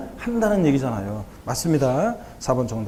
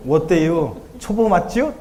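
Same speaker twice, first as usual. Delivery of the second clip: Chungcheong dialect quote; slower than usual. Retold or imitated. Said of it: "충청 사투리니까 짧게".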